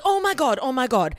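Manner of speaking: high, loud gushing friend imitation; hammed-up friend bursting with excitement; mock excited gush. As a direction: squeal it like an overexcited friend. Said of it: "she'd be like".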